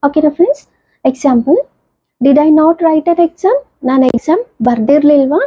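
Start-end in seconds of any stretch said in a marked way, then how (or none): 2.2-3.6 very slow, word-by-word example read; slow classroom reading of an English example; slow dictation. Shown as a demonstration. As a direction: spell the sentence out slowly for students. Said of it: "teacher dictating example sentence".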